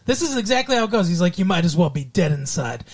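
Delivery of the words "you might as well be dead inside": imitating a grave, cutting remark; mock cruel verdict. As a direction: deliver a mock-serious put-down before switching. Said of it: "there is no transition period. It's, it's so abrupt".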